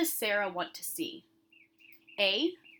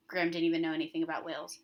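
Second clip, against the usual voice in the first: quick rereading; 3 semitones lower, much faster than usual. Shown as a demonstration. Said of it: "replace it with the word".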